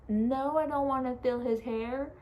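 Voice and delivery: loud annoyed no to the doctors; loud refusal. Retold or imitated. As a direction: push it away hard. Refusing doctors mid-labor.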